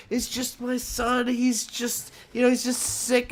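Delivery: lightly voiced mom pleading innocence. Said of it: "she's like".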